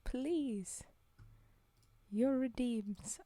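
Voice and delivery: breathy whispered plea. Real, not acted. Streamer whispering to chat for redeems. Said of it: "whispered request for redeems".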